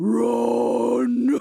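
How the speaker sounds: loud, rough, rasping, unnatural forced voice. Retelling a scene where a character tells others to run: imitating Shauna's scary unnatural voice. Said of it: "the voice that comes out of her body is, like, not Shauna's voice".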